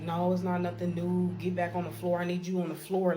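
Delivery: brusque mock supervisor; demanding. Supervisor ordering worker back, demanding. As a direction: imitate a boss brushing off a question. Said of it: "she just steady talking to me like this".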